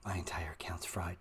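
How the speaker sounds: whispered, defeated mock moan; mock despair. Mocking a viewer's despair, whispered. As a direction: sound like a ruined trader. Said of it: "Don't talk like that".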